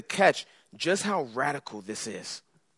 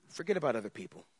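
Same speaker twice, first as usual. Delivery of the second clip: softer repeat; 6 semitones lower, 11 dB quieter, much faster than usual. Acted. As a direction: hush the repeat of "Forget about other people.".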